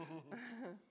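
soft nervous laugh. Real, not acted. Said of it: "I'm a bit nervous".

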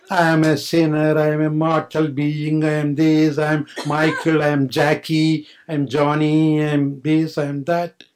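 emphatic listing. Acted. Mocking the identifications.

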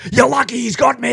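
high mock bravado; mock tough guy. Mocking a youth who is held back by his mate, high mock bravado. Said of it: "what did you do?".

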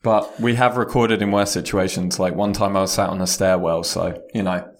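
echoey conference room; recorded in a big echoey room; big hall echo. Real, not acted. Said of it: "You sound a little echoey".

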